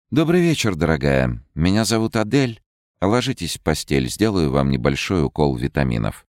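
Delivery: gentle caring nurse. Acted. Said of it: "улыбнулась медсестра".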